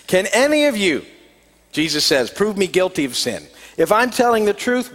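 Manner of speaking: earnest, measured Bible reading aloud; scripture reading. Acted. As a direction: read the Gospel to the congregation. Reads the Gospel passage aloud.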